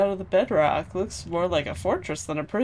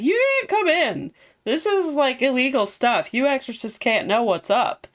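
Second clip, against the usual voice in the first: mock Velvet voice; 6 semitones higher than usual. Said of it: "Velvet was like".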